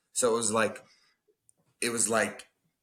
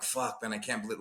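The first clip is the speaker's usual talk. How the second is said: despairing; 2 semitones lower, 7 dB quieter than usual. Retold or imitated. Man recalling his shame over the gym, softer. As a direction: mutter it under your breath. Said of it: "what I was feeling".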